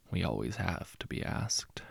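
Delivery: faint, far-off remembered voice; distant echo. A narrator's reading. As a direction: let it echo softly in his mind. Echo of words in his head.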